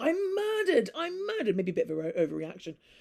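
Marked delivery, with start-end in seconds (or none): 0.0-1.6 shrill, very high, overwrought screaming cry. Telling the story of a duke, the speaker imitates him screaming. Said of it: "he was screaming".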